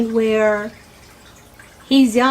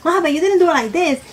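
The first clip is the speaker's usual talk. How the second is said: put-on whiny kid; 5 semitones higher, faster than usual. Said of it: "These little kids nowadays is".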